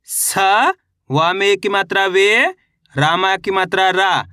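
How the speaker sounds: स, वे and रा each drawn out separately; letter-by-letter reading, stretched वे and रा; sounding out letters. Shown as a demonstration. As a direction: spell it out, holding स, वे and रा. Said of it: "एक एक अक्षर का उच्चारण करके".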